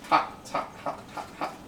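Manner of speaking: breathy gasps around a hot bite; gasping through a burning mouthful; hot food in mouth. Real, not acted. Burning mouth on fresh chicken.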